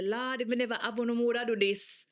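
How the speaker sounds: Jamaican mother quote. Retold or imitated. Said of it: "you hear your mother say".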